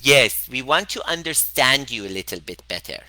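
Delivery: lightly voiced prim mother; a hint of mom's earnest tone; gently mocking mom voice; imitating mom. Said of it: "That's how my mom talks, exactly like that".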